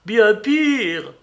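cri aigu et fort de cuisinière paniquée; lance-le, bien plus haut et plus fort; exclamation affolée. A narrator's reading. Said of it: "s'exclama l'excellente femme". (Marie-Jeanne s'écrie affolée, bien plus haut et fort)

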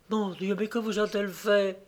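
petite voix inquiète, plus haute; s'alarmer tout doucement; inquiétude douce. A narrator's reading. Marie, inquiète, l'interroge. (douce inquiétude)

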